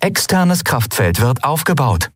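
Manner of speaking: lightly voiced machine announcement; the ship reports its shield status, mechanical; ship computer voice. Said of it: "vermeldete das Schiff erneut".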